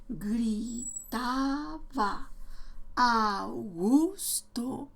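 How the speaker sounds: muy lento, sílaba a sílaba, como un niño que apenas lee; lectura muy lenta. Shown as a demonstration. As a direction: estira Gritaba Augusto trozo a trozo. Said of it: "muy despacio, muy lentamente". (Gritaba Augusto leído muy despacio, deletreando)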